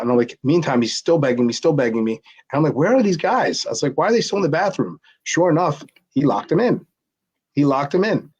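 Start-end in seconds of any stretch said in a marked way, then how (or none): 2.7-3.7 high-pitched puzzled question; retold bafflement. Retelling his bafflement at missing friends. 4.0-5.0 quick, high-pitched puzzled question; retold bafflement. Retelling his bafflement at missing friends.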